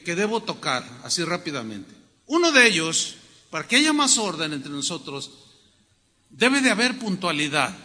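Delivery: usual speaking voice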